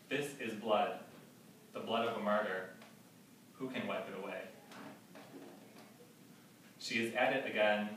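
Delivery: deliberate, evenly paced verse recital; poetry reading. Acted. Poet reading a prison guard's account in verse, measured recital. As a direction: recite it phrase by phrase, with weighted pauses. Reads epigraph and poem.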